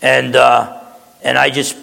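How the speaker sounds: measured prayer voice with long pauses; closing prayer. Acted. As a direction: pastor praying over the congregation.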